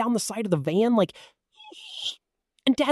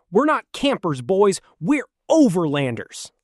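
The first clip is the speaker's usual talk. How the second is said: a lightly voiced proud dad, a bit louder; Dad impression; 2 semitones lower, 7 dB louder than usual. Kid imitating his dad bragging to the boys. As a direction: puff up like a dad who knows it all. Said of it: "Dad impression".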